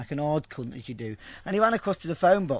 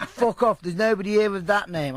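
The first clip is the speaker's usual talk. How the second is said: higher, mock-indignant brush-off; retold angry dismissal; 5 semitones higher, 4 dB louder than usual. Geezer denying she is there, imitated angry dismissal. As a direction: brush the caller off forcefully, imitating. Geezer sends him away, quarrel.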